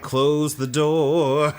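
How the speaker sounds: slow, drawn-out smooth crooner line; lazy, slow mock serenade; a soul singer. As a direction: stretch it out like a slow soul singer. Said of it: "a soul singer is like".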